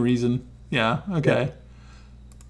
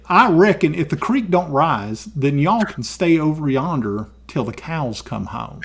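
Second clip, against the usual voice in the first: put-on cowboy accent. Streamer reads a viewer's sentence in a light Southern cowboy accent. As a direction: read it like a lazy Texas cowhand.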